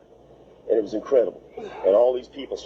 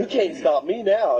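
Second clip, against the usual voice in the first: defiant; 10 semitones higher than usual. Retold or imitated. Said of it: "'cause I was gonna go".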